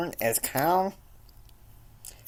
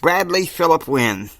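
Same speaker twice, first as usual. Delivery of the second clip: loud, higher scolding call of the full name; 5 semitones higher, 9 dB louder than usual. Acted. Full-name call after calling Brad.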